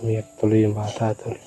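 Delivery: soft aside to the viewers; quiet aside. Real, not acted. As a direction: murmur it to the camera. Aside to camera about the child. (mahinang pabulong sa manonood)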